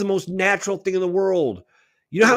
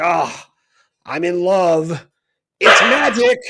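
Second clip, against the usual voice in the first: slow, swooning then louder on magic; mock lovestruck gush; 7 dB louder, slower than usual. Mocking how nobody complains about love, swooning gush. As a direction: gush like someone dreamily in love. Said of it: "hear somebody say".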